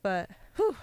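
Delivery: winded exhale; breathless whew. Real, not acted. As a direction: puff out a tired breath. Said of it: "so I'm kind of out of breath".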